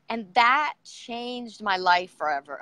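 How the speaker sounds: slow, with real emotion welling up; moved, slowing down on a life-changing memory; getting emotional. Real, not acted. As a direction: let the feeling catch you as you say it. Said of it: "I'm getting emotional thinking about it".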